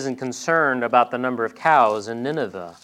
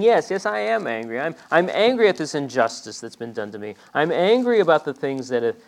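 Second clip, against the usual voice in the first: angry Jonah; 2 semitones higher than usual. Acted. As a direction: insist on your grievance, worked up. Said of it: "And Jonah's saying".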